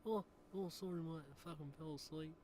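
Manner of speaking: Sass coming to after a bender; Sass waking up. Acted. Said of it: "switching between my normal voice and the fucking Sass, mate".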